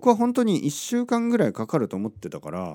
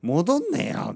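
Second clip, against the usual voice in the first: mock yell; 12 semitones higher, slower than usual. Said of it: "心の中で叫びましたよね".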